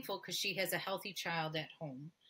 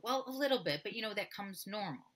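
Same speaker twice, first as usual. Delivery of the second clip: patient voice; 4 semitones higher, 3 dB louder than usual. Retold or imitated.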